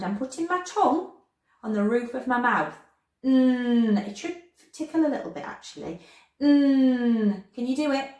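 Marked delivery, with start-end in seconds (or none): 3.2-4.1 long humming "Mm" with the tongue on the roof of the mouth; held N sound. Shown as a demonstration. Teacher showing children the N sound, held "Mm" hum. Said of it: "when I'm making that N sound". 6.4-7.4 long humming "Mm" with the tongue on the roof of the mouth; held N sound. Shown as a demonstration. Teacher showing children the N sound, held "Mm" hum. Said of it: "when I'm making that N sound".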